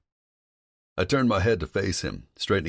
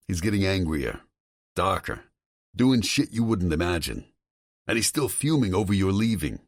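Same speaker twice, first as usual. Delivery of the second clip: higher, agitated male voice on the phone; a worried friend pushing hard, voice raised in pitch; Tom's voice; 4 semitones higher than usual. Acted. Tom warning Vincent about his father, higher and agitated.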